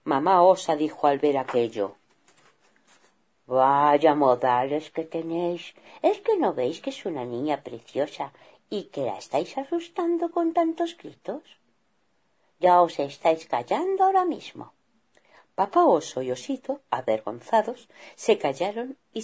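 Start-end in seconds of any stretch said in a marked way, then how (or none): 3.5-14.7 mild reproach. Acted. Mother scolds husband and son.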